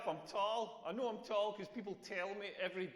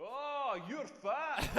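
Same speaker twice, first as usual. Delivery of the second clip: higher, louder mock gawking, laughing; mock rude stranger; 5 semitones higher, 4 dB louder, much slower than usual. Comic imagining strangers gawking at a fat person, higher and laughing. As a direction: play the blunt stranger. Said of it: "go up to a fat person and be like".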